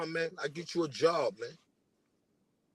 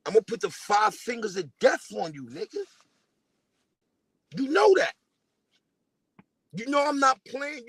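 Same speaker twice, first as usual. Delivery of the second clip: Quad voice; 4 semitones higher, 3 dB louder than usual. Retold or imitated. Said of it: "But in my man Quad voice".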